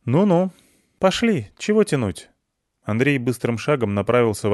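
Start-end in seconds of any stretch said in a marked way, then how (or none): 0.0-2.3 impatient urging. Acted. Character urging to go.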